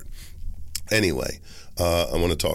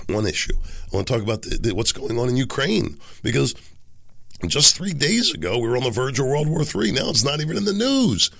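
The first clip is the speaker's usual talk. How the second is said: hoarse from a cold. Real, not acted. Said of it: "but my voice sounds really bad".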